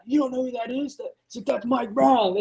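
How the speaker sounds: mock the mechanic's stunned reply; amazed mechanic. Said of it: "And he's like".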